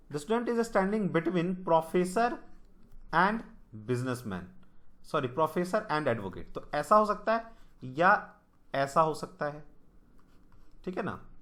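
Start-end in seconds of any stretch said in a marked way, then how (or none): 0.1-6.5 reading the English line out word by word, slowly; slow question read. Shown as a demonstration. Teacher slowly reads the puzzle statement to students, deliberate. Rereads question, corrects himself.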